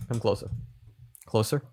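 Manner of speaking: hushed and creepy, leaning in; creepy whisper. Pretend. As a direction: draw them closer in a low hush. Creepy close-mic invitation.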